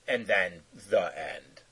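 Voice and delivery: quiet closing "the end"; soft, slow wrap-up. Shown as a demonstration. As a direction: let it fade out gently. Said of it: "Oh, no, I mean".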